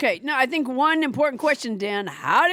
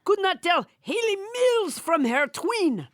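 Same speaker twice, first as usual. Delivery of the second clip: French Trump voice; 3 semitones higher than usual. Acted. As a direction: keep the French Trump puppet going. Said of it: "French Trump would disown her".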